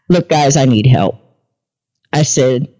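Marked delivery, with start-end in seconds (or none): 0.1-1.2 straight talk, no sing-song; unrehearsed plain-spoken prayer. Retold or imitated. Stranded mom talking to her angels, frank plea. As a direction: plead matter-of-factly, like talking to friends. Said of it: "No sing-songy prayer, no memorized anything".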